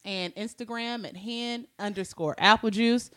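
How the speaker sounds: stuffy, congested voice. Real, not acted. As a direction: talk through a blocked nose. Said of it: "I'm a little congested".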